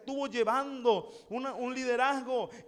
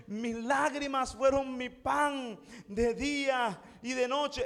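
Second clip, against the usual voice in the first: exaggerated lament; slower than usual. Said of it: "Exagerando la nota".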